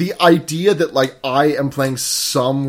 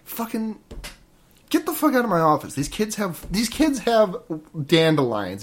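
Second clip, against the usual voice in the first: exasperated cop; 4 semitones higher than usual. Acted. Cop throwing a tipster out of his office, mock exasperation. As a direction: grumble as a cop dismissing kids, then burst out. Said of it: "That's a pretty good impression".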